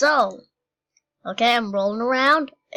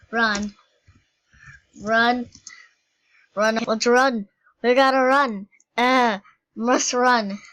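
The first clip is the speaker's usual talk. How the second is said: rising, louder urgent calls to run; mock panic; 4 dB louder than usual. Fleeing the danger in the game, building mock panic.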